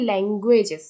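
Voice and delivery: ল্যাঙ্গুয়েজেস with ল্যাং leaned on; stress on first syllable. Shown as a demonstration. Teacher demonstrating word stress, stressed ল্যাং in ল্যাঙ্গুয়েজেস. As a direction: push the opening ল্যাং in ল্যাঙ্গুয়েজেস. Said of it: "ল্যাং এর উপর একটু জোর দেওয়া হচ্ছে".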